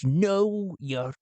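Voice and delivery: lightly voiced sophisticated retort; Len Onya. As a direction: answer back as a cultured gentleman. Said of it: "Len Onya speaks back".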